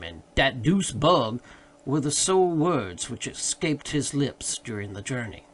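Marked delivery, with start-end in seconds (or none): 0.3-1.4 slow, stubborn servant's mutter of "dat deuce bug"; grudging, dragged-out complaint from a sullen servant; dogged grumble. A narrator's reading. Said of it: "His demeanor was dogged in the extreme".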